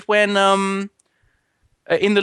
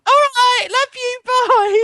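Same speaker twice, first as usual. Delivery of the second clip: high, louder mock mother signing off; fake mum goodbye; 5 dB louder, slower than usual. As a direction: chirp goodbye in a falsetto mum voice. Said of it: "pretend to be your mother".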